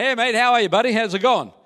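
casual Australian matey greeting, lightly played; Australian mate talk. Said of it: "sound like they're an Australian".

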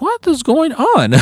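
high, slow bewildered whine. Retold or imitated. Driver watching the chaos, slow high bewilderment. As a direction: drag it out in disbelief.

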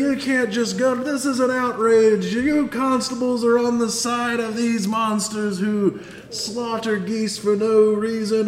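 high, loud indignant pamphlet man; outraged activist. Acted. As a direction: rant like an offended activist. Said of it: "the guy that was talking to you with the pamphlet goes".

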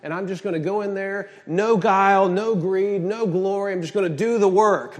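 loud, defiant preacher voicing Paul; bold declaration. Paul declaring to the crowd, loud and defiant. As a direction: proclaim it with force. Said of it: "He's like".

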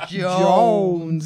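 loud, low country drawl on Jones; low, twangy country Jones; mock country cowboy voice; low country accent. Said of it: "we forgot the low".

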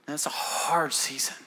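low, soft near-whisper; quiet, breath-heavy sympathy; hushed empathy. Real, not acted. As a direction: say it gently, almost under your breath. Preacher empathizing with those waiting.

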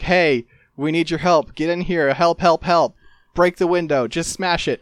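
playful imitation of someone pleading; mock urgent plea. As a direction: call out urgently, lightly hammed-up. Voices ghost begging for help.

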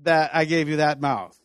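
sarcastic mock apology in God's voice. Preacher mocking Moses' excuse as God, sarcastic. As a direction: play God pretending to give in, mockingly.

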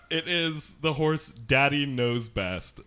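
slow, laughing reveal of the name. Real, not acted. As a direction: savour the name through laughter. Announcing the punchline horse name.

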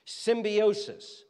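"Symbiosis" drawn out slowly, stretching the final s; slow, drawn-out word. Shown as a demonstration. Preacher teaching the congregation a word, slow and drawn out. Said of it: "teaching word example".

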